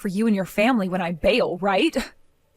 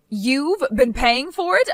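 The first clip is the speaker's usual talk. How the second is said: stunned disbelief; slower than usual. Acted. Shocked echo of the loan reveal.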